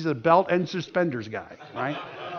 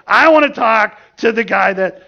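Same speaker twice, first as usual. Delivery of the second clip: louder, demanding retold voice; mock angry demand; 2 semitones higher, 7 dB louder than usual. Visitor demands to see whoever handed him the tract, mock angry. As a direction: act out an irate visitor, punching the words louder. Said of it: "he threw it down".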